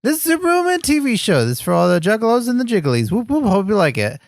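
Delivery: quick catchphrase read with a high start. Shown as a demonstration. Reminding a friend of the catchphrase, reading it out. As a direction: read the intro straight, words distinct. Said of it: "I was just reading it".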